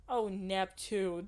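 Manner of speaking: slow, loud drawn-out cry; screamed out. Acted. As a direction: wail it through the labor pain. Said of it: "screamed out".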